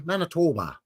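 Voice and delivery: "Manitoba" with a round, long O in the middle, MAN-i-TOE-ba; Canadian prairie say of Manitoba. Shown as a demonstration. Host showing chat the local way to say "Manitoba". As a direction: say "Manitoba" the way they say it out there. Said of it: "the way I pronounce Manitoba".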